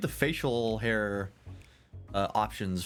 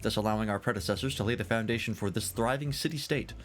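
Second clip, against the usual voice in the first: lightly voiced, lilting tavern scholar; tavern storyteller. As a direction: play a genial tale-teller sizing up a guest. Voices storyteller telling the legend.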